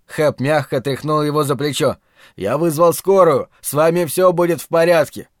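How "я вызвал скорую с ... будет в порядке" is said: raised, urgent reassurance. Acted. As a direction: shout it to reach him. Hap reassures loudly.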